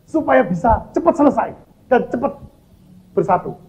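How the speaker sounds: retold plea, pitched well up; pleading with God. Preacher re-enacts asking God how to unite with his wife, pleading. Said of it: "saya tuh bilang gini sama Tuhan".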